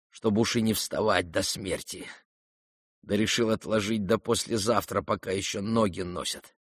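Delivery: fading strength, quiet resolve; weak dying youth. Acted. Dying youth tells them of his death, weak and quiet.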